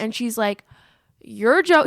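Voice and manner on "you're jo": higher, louder burst of fangirl disbelief; mock fan scream. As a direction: imitate a superfan starting to shriek. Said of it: "she's, like, screaming".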